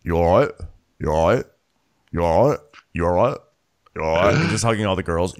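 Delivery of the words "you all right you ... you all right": quick repeated check-in with rising end; imitated casual greeting, tipped upward; Carl. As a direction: toss it out like a catchphrase, put-on. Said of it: "Carl's like".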